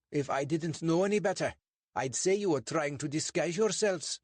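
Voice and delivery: a suspicious bobby lecturing two suspects; portly constable, stern and clipped; English constable. Acted.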